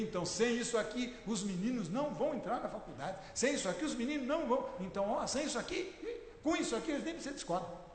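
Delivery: a light hint of a pushy salesman's pitch; mildly mock the seller's sales talk; imitating a salesman. Preacher mocks a salesman pushing his wife, lightly voiced pitch. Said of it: "é mais ou menos o que o vendedor faz".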